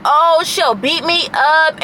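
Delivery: slow, drawn-out mock threat; mocking friend. Imitating her friend's slow mock threat on the group call. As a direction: drag out her taunt slowly like she's toying with you. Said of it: "telling me how".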